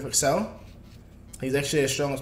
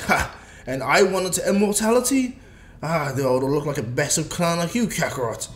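mocking Vegeta; 4 dB louder than usual. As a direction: gloat over your rival.

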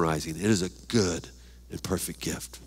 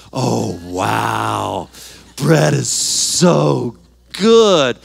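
very slow and louder, drawn out; savoring delight; 5 dB louder, much slower than usual. Real, not acted. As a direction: relish every word. Savoring bread.

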